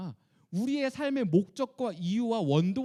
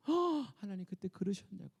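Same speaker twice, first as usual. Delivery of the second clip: be moved and astonished at God's words; amazed Moses. Retold or imitated. (놀라 감탄하는 모세)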